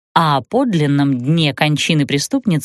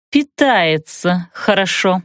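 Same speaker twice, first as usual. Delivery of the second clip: процедила; slower than usual. Acted. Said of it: "процедила ведьма".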